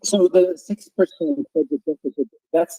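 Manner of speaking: covered, muffled microphone sound; muffled mic. Real, not acted. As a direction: speak through a covered mic. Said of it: "Peter, you are very muted".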